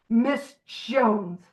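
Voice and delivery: disgusted. Shown as a demonstration. Naming the resented woman to the group, with distaste. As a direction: spit out "Miss Jones" like a bad taste.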